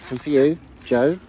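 loud, bright calling-out; calling to birds. Real, not acted. Feeding the birds, loud fond calling out. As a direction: call each bird over as you feed.

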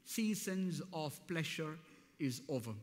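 voicing Sarah's resignation softly to the church; Sarah's weary words. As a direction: let the words sink low and tired, mildly acted. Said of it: "She even made a statement".

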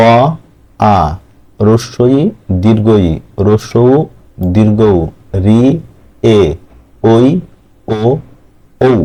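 each vowel অ আ রস্বই দীর্ঘ ই said slowly and separately with pauses; teacher recites the vowel row one by one, carefully; careful vowel recitation. Shown as a demonstration. শিক্ষক ধীরে ধীরে স্বরবর্ণগুলো আবার বলছেন. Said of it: "আমি সুন্দর করে আরেকবার বলছি".

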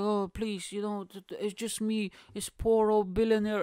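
mock pleading. Poor old billionaire begging for sympathy, mock pleading. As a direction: beg for pity, tongue in cheek.

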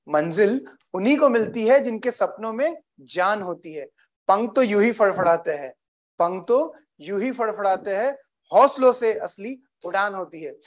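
fast, rhythmic poem delivery; shayari recitation. Shown as a demonstration. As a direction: recite the Hindi couplet with a poet's flourish, repeating each line. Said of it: "let's start with the amazing शायरी".

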